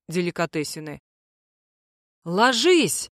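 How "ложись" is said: a tearful wail of Ложись; sobbed warning. Acted. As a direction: cry it out while bolting. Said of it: "прорыдал Михуил".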